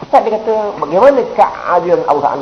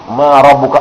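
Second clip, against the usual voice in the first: louder, stern Arabic question Ma rabbuka; angel's question; 2 semitones lower, 5 dB louder, slower than usual. Retold or imitated. Preacher voicing the grave angel questioning in Arabic, louder. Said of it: "malaikat tanya cakap Arab".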